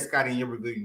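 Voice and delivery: normal talking voice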